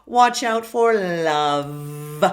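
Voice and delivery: slow whispered demo line. Shown as a demonstration. Coach whispers a slow warning to students. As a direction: whisper it slowly to the class. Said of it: "lesson demo line".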